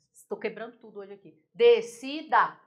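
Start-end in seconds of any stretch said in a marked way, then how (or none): 1.5-2.6 "Decida" slowly split de-ci-da, loud first beat; three separate beats in "Decida": de, ci, da; slow, deliberate de... ci... da; syllable by syllable. Shown as a demonstration. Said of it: "Uma sílaba, duas sílabas".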